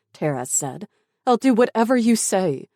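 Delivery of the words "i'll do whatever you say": high, loud promise; desperate begging. Acted. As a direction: plead as a last bargain. Captive begs for girl's life.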